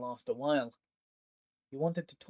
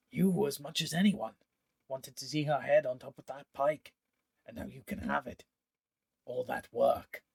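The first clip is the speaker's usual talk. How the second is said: coaxing, tempting pitch; persuasive villain. Acted. Pontifex luring his old partner with the prize. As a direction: dangle the prize before him.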